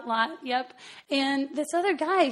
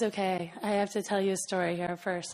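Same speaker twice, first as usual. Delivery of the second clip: lightly voiced big man, pitched lower; a hint of a huge man's low voice; huge deep voice; 4 semitones lower, 4 dB quieter than usual. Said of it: "he's this huge, deep voice".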